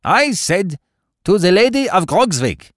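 insistent repeated toast. A narrator's reading. Baron repeats himself to pale companions, insistent high toast. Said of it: "repeated the Baron, looking round the board".

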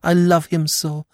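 high, imploring repeated pleas, fading at the end; desperate pleading. Acted. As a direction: beg again and again.

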